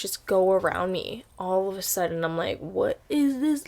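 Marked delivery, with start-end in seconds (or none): 2.6-3.7 startled. Retold or imitated. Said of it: "Like, I was afraid".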